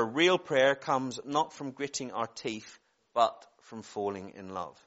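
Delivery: slow, deliberate reminder; measured preacher's quote with weighted pauses; quote recitation. Real, not acted. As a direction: recite it unhurried, softening on the last phrase. Recites the quotation to congregation.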